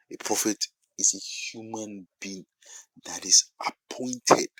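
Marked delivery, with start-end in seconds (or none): 3.0-4.5 "appointed" slowed and weighted; stress on appointed. Shown as a demonstration. Preacher defining a prophet for the congregation, slow stress on "appointed". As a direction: take time over the word "appointed". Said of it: "Emphasis on the word appointed".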